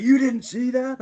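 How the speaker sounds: as the spooked friend who can't believe you missed it; incredulous friend. Retold or imitated. Case asking his passenger, high spooked disbelief. Friend voiced, frightened by dog.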